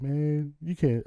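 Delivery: mock outburst. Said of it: "I wouldn't say it like that".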